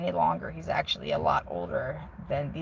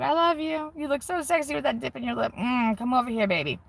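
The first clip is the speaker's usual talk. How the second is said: higher, teasing sweet talk; playful cooing; 6 semitones higher than usual. Pretend. Wife sweet-talking husband in case he is watching, playful cooing. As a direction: coo it high to a sweetheart, half joking.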